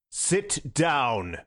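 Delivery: an order that makes men drop swords; commanding. A narrator's reading. Sunday halts the men rising at Gogol, commanding. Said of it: "a voice that he used once or twice".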